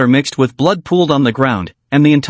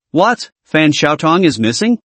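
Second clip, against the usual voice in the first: shocked question. Acted. Detective hears on the phone that she is missing, shocked question. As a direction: react to alarming news with mild shock.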